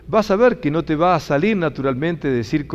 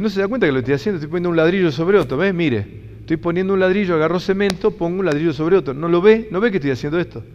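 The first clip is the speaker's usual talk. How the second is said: irritated retort, higher and quicker in places; annoyed bricklayer; 4 semitones higher, faster than usual. Retold or imitated. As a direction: snap back at a nosy stranger. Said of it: "lo mira como con bron-, con bronca".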